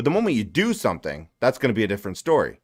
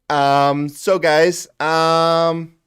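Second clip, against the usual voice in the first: raised, louder put-on streamer voice; fake cheerful composure; 4 semitones higher, 6 dB louder, much slower than usual. Mock streamer stalling before viewers, forced cheerful voice. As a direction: force a perky on-air front.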